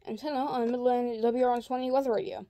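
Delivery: slightly slurred speech after dental work; talking weird. Real, not acted. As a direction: talk like your mouth feels odd after a spacer removal. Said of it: "Please excuse that I'm talking weird".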